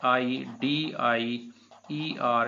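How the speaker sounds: slow letter-by-letter spelling; slow dictation of letters; spelled out slowly. Shown as a demonstration. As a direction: drag out each letter. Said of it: "टाइडी, टाइडियर".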